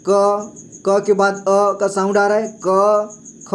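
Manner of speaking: slow, clear क with its inherent अ; teacher modelling क; demonstrated consonant sounds. Shown as a demonstration. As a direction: sound out क, ख for the learner. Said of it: "जैसे हम बोलते हैं क".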